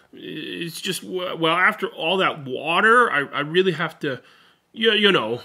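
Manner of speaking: embarrassed stammer. Acted. Sheep stammers about bathroom.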